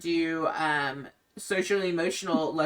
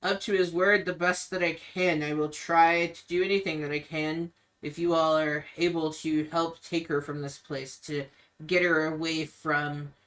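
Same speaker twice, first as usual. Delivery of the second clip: Ismark, grave and pleading. Acted. Ismark pleads with the group to take his sister away. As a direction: ask strangers for help, weighed down. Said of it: "he says".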